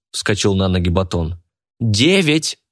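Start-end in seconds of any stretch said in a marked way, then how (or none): 1.8-2.6 shouted. A narrator's reading. Полина shouts her bid across the auction hall. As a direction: call it out over the room. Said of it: "крикнула Полина".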